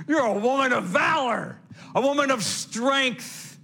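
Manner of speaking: high, loud, ringing declaration; preacher's proclamation. Real, not acted. Preacher honouring a mother's strength, loud proclamation. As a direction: proclaim it to the whole congregation.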